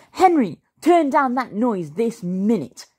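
high, stern order; scolding dad. A narrator's reading. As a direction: order it crossly over the music. Dad scolds over loud music.

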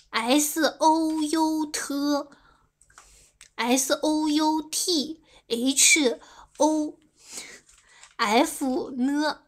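S O U T as long, level English letter names; English letter spelling. Shown as a demonstration. Streamer shows off her English, stretching S O U T letter by letter. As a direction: recite O U T H O slowly, letter by letter. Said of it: "英语我也可以啊".

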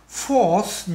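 "Fourth" with a clearly voiced TH ending. Shown as a demonstration. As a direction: say "Fourth" and finish on the TH. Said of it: "nhớ thêm cái đuôi T H". (phát âm rõ đuôi TH trong "Fourth")

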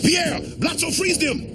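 commanding shout. Acted. Alien commander orders captives frozen.

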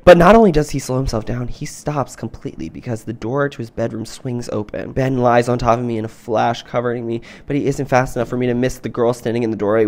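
measured audiobook-style reading; story narration. Acted. Reading a romance novel to friends, narrating. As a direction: read the romance passage evenly.

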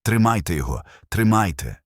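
гучніше, уривчастий наказ; лікар гукає, щоб утримали хворого; urgent shout. Retold or imitated. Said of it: "Хтось кричав". (медики в палаті кричать тримати пацієнта, наказ)

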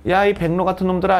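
mild pretend swearing; mock cursing. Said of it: "뭐라고 이렇게 욕한 거야".

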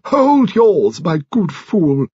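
high, loud put-down, slowing at the end; imperious retort. A narrator's reading. Lady Lacklander overruling Mister Finn, imperious retort. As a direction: put him firmly in his place.

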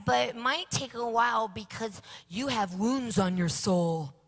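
lightly voiced little boy; a hint of a child, plainly; child relaying. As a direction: pass on the answer like a small son. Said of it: "he goes".

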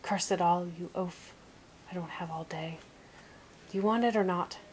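impatient troll shouting; cried out angrily. Acted. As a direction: bark it out in frustration as a grumpy troll. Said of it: "he cried".

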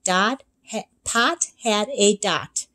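slow, stumbling read; halting misreading. Acted. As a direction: trip over the words. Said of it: "she read".

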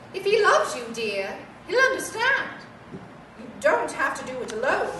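lightly voiced grand old lady; gentle hint of a dowager, say dear; frail withering duchess. Toy answers, calls her dear.

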